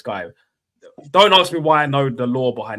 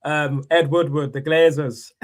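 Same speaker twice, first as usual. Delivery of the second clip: imitated Man United fan; slower than usual. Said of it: "viral Man United fans".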